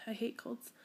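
whispered aside with a sore throat. Real, not acted. Sick vlogger complaining about her cold, whispered. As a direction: drop to a whisper. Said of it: "I sound so weird".

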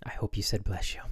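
hushed intimate murmur; hushed, close to the mic; right in your ear. Pretend. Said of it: "whisper in your ear".

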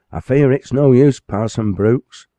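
said sadly. Acted. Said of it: "said the librarian sadly".

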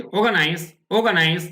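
"organize" said as o-ga-nais, no R; modelled pronunciation. Shown as a demonstration. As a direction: drill "organize" with the R dropped. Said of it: "আমি কিন্তু আপনাদের শেখাচ্ছি".

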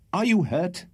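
high, worried question; anxious. A narrator's reading. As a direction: ask with real concern. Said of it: "with great anxiety".

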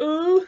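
"uh" as a rounded "oo"-like vowel; Gatineau "uh" sound. Shown as a demonstration. Showing the Gatineau filler, "uh" rounded towards "oo". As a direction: say "uh" as a mock Quebecer's rounded filler. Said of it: "they always have the, uh, sound".

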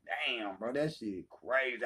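quietly recalled amazement, drawn out; retold muted reaction. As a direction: quote your own reaction low and under your voice. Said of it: "I be like".

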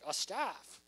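matter-of-fact, voice lifting at the end; plainly spoken with an upward lilt; upbeat guess. Acted. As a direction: offer it up brightly, ending on a rise. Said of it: "I wonder how he said it".

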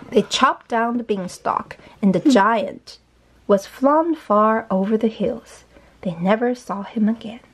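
slow, measured storybook reading; story narration. A narrator's reading. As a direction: read slowly to a young child. Reads the story aloud.

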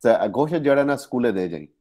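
quick Punjabi line, stress on the second syllable; Punjabi phrase. Shown as a demonstration. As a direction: say it like a Punjabi speaker. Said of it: "Punjabi में कहते हैं".

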